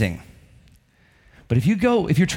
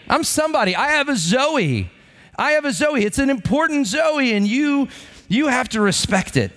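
higher-pitched, puffed-up insisting; mock self-important insistence; 7 semitones higher than usual. Preacher voicing a success seeker, higher, self-important insistence. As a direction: lightly act someone demanding to be taken seriously.

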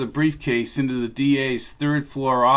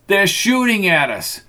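shouted higher, in panic; frantic high yell; 6 semitones higher than usual. A narrator's reading. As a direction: cry it out, pitch climbing.

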